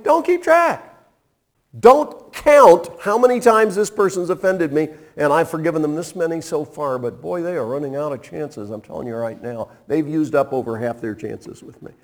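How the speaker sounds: mock grudging forgiver. Preacher voicing a grudging forgiver.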